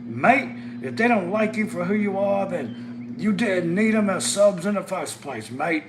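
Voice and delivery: high, loud mock Australian accent. Imitating Matt consoling him over lost subs, mock Australian accent. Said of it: "Australian accent".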